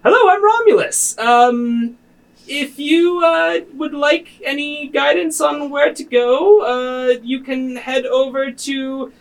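high, halting, hesitant advisor voice; Romulus the advisor. Acted. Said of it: "Romulus looks over at you guys and says".

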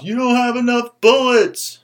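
high, slow line breaking into a laugh; laughing punchline. Retold or imitated. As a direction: deliver it while cracking up. Guy in back, punchline.

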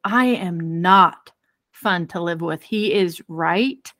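very slow, halting self-admission; slow dawning realization. Retold or imitated. Wife admitting to herself she's hard to live with, slow and halting. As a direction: let it sink in word by word. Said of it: "It was like".

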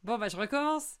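put-on loud, weary child starting over; a boy sighing that he'll repeat; resigned kid. Son's reply voiced in story.

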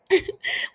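short, high, breath-only giggle. Real, not acted. Podcaster starting a funny recap, short giggle. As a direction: let a quick laugh slip out.

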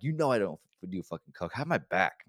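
moderately heated self-defense; retold angry protest. Man demanding coworker's loyalty, moderately indignant. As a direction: replay the demand with some heat. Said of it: "I got mad about that shit".

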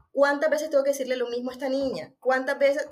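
a mother who has run out of patience; mock exasperated shout; frustrated mother. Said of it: "no sabes cómo expresarlo y gritas".

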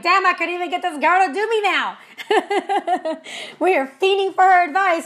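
laughing through the words. Real, not acted. Joking to viewers about her busy coach, laughing. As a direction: chuckle while joking about it.

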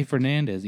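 "Fernandez" anglicized, no Spanish attempt; straight English pronunciation. Shown as a demonstration. Telling people not to try hard, "Fernandez" in plain English pronunciation. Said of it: "just straight up say".

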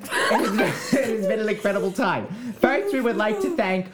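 silly voice. Acted. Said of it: "thank yous in silly voices".

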